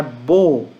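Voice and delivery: "bo" punched out on its own; "bo" held and leaned on; stressed syllable. Shown as a demonstration. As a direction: hit "bo" firmly as the stressed syllable. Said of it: "é pra indicar a sílaba tônica".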